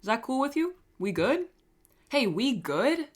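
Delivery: high, swooping check-in questions; mock concern. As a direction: check in with exaggerated sing-song pitch.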